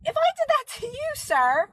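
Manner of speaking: squeaky high disbelieving complaint; mock exasperation. Scolding her cat for the wake-up, high mock outrage.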